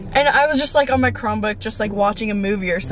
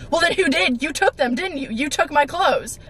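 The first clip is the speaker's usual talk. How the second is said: higher-pitched imitation of an accuser; mock interrogation, pitched up; accusing; 3 semitones higher than usual. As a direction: badger them like an indignant sister.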